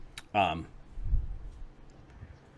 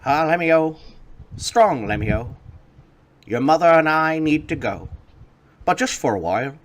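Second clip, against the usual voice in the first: a lightly voiced gnome father, higher; proud father bidding farewell; 7 semitones higher, 4 dB louder than usual. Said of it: "they both say".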